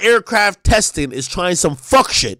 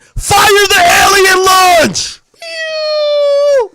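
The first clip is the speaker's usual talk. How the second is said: mock launch command; 12 semitones higher, 4 dB louder, much slower than usual. Playing a commander, firing sound.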